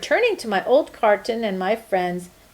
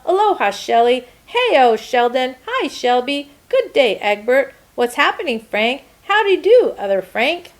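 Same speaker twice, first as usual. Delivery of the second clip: louder, bright hellos to each egg; cheerful greetings; 4 semitones higher, 4 dB louder than usual. Acted. Returning egg greets his friends, cheerful. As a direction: greet every friend happily.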